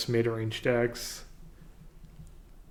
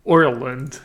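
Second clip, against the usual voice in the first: louder try at Irish "Ireland"; Irish accent; 7 dB louder than usual. Shown as a demonstration. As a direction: hit the Irish OI in "Ireland" firmly. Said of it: "Now, add that sound to the word".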